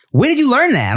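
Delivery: rising, incredulous question; retold parents' disbelief. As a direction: imitate baffled parents, pitch shooting up at the end.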